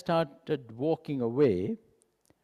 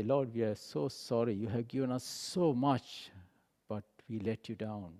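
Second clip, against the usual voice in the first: contrite prayer; 3 semitones lower, 6 dB quieter than usual. Pretend. Models a repentant prayer.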